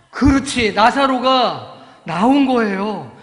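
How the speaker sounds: loud, slow triumphant announcement; big joyful storyteller boom; excited reveal. Real, not acted. Climax of the miracle.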